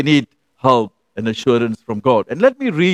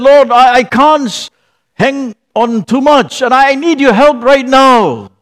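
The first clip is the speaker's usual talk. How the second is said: desperate plea; 9 semitones higher, 6 dB louder than usual. Retold or imitated. Man pleading while hanging.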